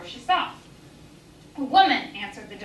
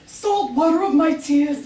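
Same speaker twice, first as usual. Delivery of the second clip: quoted lament; 3 semitones higher, 4 dB louder, slower than usual. Retold or imitated. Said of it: "she had just uttered".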